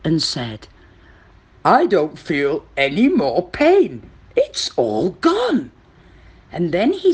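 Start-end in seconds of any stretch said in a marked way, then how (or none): 1.6-5.7 relieved crocodile character; lightly voiced crocodile, feeling better.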